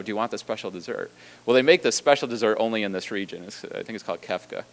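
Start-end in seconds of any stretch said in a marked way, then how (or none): 0.0-1.1 soft, quick, voiced mock whisper; retold whisper. Waiter asking the host about dessert, imitated hushed aside. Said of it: "he whispers in his ear".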